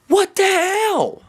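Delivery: high, slow, drawn-out disbelief; furious fan venting about the clock; outraged outcry. Real, not acted. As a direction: let the frustration burst out.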